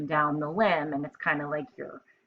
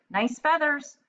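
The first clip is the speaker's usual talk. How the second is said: much higher playful lizard voice; lizard compliment; 10 semitones higher, 4 dB louder than usual. Acted. Lizard flatters the parrot, high and playful. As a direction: tease the parrot sweetly, up high. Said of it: "said the lizard".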